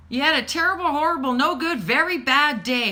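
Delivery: put-on commiserate big with the child; sympathetic mom. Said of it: "I would tell my kids".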